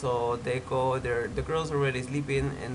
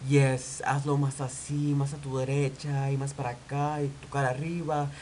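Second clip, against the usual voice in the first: imitating Spanish-speaking photographer. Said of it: "photographer was talking in Spanish".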